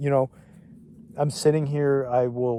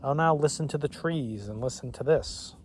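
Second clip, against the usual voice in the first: mock idiot voice; 4 semitones higher, 3 dB quieter than usual. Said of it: "I feel like this idiot who's just like".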